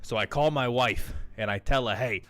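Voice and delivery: a hint of a boozy old salesman spinning his airport yarn; light old-timer voice telling a cautionary tale; old guy Howard. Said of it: "Howard's an old guy that talks like this".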